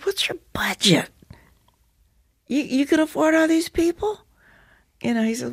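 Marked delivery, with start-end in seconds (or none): 0.0-4.2 hushed, incredulous whisper; whispered question. Retold or imitated. Actress asking the director about his budget, in a hushed whisper. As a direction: lean in and whisper it like a secret.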